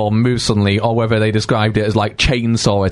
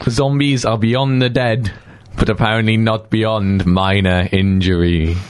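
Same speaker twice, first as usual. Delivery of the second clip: reading aloud; 3 semitones lower, slower than usual. Shown as a demonstration. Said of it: "could someone who can actually see the screen read that out".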